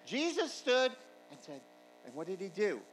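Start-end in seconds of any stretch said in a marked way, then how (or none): 0.0-1.6 high, loud proclaiming read; dramatic scripture reading. A narrator's reading. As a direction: build the verse toward its climax. Preacher reads scripture building to climax.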